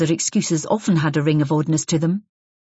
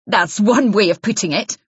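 sneering; 4 semitones higher, 4 dB louder than usual. Acted. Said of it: "unfriendly, even sneering".

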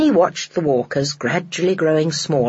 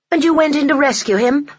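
astonished Mary; 10 semitones higher, 3 dB louder than usual. A narrator's reading. Mary's voice.

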